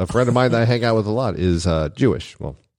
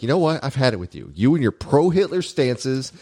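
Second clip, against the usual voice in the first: mock exasperated rant, pitched higher; irritated rant, imitated; 5 semitones higher than usual. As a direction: imitate a fed-up friend ranting. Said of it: "he was really irritated".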